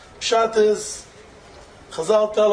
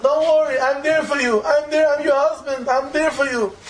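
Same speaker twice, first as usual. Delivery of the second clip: higher, earnest retold reassurance; reassuring husband; 4 semitones higher than usual. Husband to his crying wife, earnest reassurance. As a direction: console her insistently, pitch lifted.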